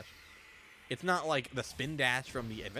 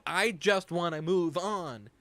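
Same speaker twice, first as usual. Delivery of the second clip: slow, louder, dragged-out whine; mock bored Sonic; 4 semitones higher, 5 dB louder, much slower than usual. Gamer imitates Sonic wanting to move on, slow whine. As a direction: drag it out like you're over it. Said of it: "He's like".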